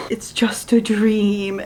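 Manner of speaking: slow soothing whisper; aunt whispering the niece back to sleep. Retold or imitated. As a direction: hush it gently like a bedtime lullaby. Aunt soothing child back to bed.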